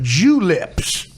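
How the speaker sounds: "Juleps" split into two words, Jew lips. Retold or imitated. Mocking how Mike says "Juleps" as two words. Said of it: "he didn't make it one word".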